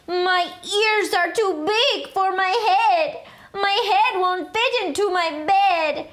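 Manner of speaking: put-on sing-song Spanish accent, boastful. A narrator's reading. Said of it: "using his very best Spanish accent".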